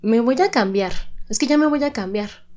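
quoting a common phrase, pitch lifted; mock casual everyday phrase. Quoting what women often say, lightly mocking. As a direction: say it like everyone does. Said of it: "Otra frase que también decimos mucho es".

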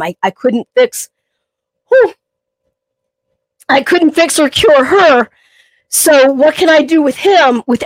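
fighting back tears over her mom; choked up. Real, not acted. Trainer remembering her late mom, choked up. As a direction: voice catching as the tears come. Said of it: "I'm getting very emotional".

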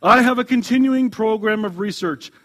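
cool reply. A narrator's reading. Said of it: "And coolly".

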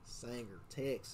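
a light southern Texas drawl on Sanger, Texas; mild southern US accent. Shown as a demonstration. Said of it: "you gotta say that with a, with a southern, southern slang".

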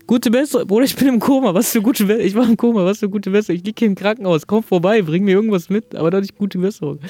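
exasperated rant at a friend's get-well wish; indignant disbelief. Real, not acted. Indignant retelling of coma reply.

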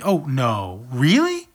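playful make-believe phone call; pretend phone chat. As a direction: chat on a toy phone for a toddler. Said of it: "short conversation".

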